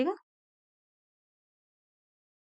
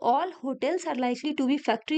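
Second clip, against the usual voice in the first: each word drawn out slowly; slow teacher dictation of a statement; much slower than usual. Shown as a demonstration. Rereads conclusion.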